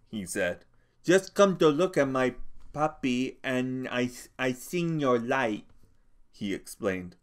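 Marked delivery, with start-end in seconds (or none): 1.0-5.7 simple-minded big man. A narrator's reading. Lennie explaining himself to Crooks, timid and fumbling. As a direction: stumble over the words like a nervous child.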